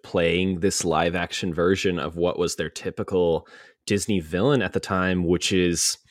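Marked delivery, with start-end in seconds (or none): 5.2-6.0 hushed, slow confiding whisper; whispered aside. Real, not acted. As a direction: lean in and whisper it slowly. Hushed aside about queer coding.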